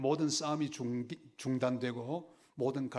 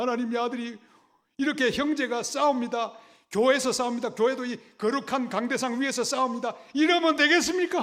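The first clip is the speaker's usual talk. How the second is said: acted, loud, high, tearful, pleading weeping; 11 semitones higher, 9 dB louder than usual. Telling of twin brothers fighting in church, the speaker re-enacts a tearful prayer. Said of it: "하나님 하고 막 울면서".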